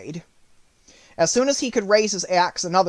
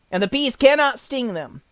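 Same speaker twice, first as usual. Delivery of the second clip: urgent Scarecrow; 7 semitones higher than usual. Acted. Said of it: "he said to the Woodman".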